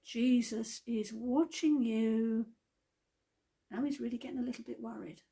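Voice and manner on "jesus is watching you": slow, drawn-out voice from nowhere; a spooky unseen watcher, taking its time; slow mystery voice. Acted. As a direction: let it hang in the dark, slowly. Mystery voice repeats the warning.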